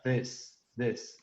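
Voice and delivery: This con I cortita y S seca; short i and dry s. Shown as a demonstration. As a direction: decir this con i breve y s sin sonorizar. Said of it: "esa I es la I cortita y la S, S común, S seca". (this con I corta y S seca)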